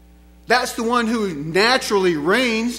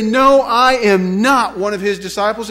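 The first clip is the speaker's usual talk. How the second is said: emphatic, raised-voice refusal; resolute denial; 5 dB louder than usual. Acted. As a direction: deny it flatly and forcefully. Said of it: "There was no questioning".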